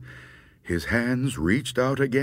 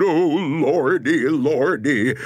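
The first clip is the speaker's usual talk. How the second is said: long, wavering moan; hammed-up trembling lament; frightened moan; 2 semitones higher, 4 dB louder than usual. A narrator's reading. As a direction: moan it out, quavering with fear. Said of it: "And the gravedigger moaned".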